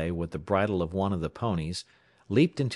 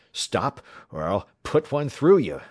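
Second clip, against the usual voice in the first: raised-pitch command with menace; threatening order; 4 semitones higher, 5 dB louder than usual. A narrator's reading. Runner with a revolver threatens the fleeing pair, ordering. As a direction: order them, building louder into the threat. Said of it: "he ordered".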